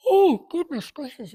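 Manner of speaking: a big high yawn breaking through the words. Real, not acted. YouTuber apologizing to viewers, yawning. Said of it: "I don't know why I'm yawning".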